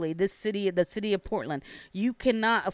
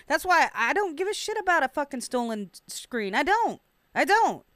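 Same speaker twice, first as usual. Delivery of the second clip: angry; 7 semitones higher than usual. Real, not acted. Angry rant about the rich.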